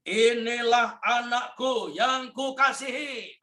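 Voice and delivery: slow, lifted, loving proclamation; voice of God the Father. Acted. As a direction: announce it from heaven, slowly. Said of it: "Dia berkata begini".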